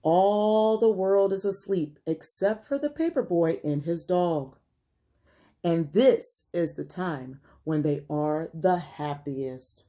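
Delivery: put-on measured, expressive story narration for children; read-aloud storytelling. A narrator's reading. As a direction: read it to young listeners, stretching key words. Reads picture book aloud.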